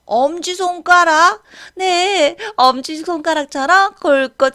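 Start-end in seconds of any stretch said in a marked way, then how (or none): 0.1-1.4 surprised echo. Acted. Teacher echoes insult.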